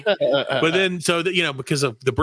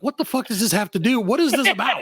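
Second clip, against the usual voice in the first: incredulous; 8 semitones higher than usual. Retold or imitated. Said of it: "And I'm like".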